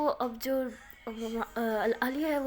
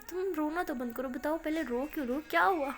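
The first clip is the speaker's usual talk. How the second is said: anxious; 4 semitones higher than usual. Acted. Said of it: "عالیہ بہت زیادہ گھبرا جاتی ہے".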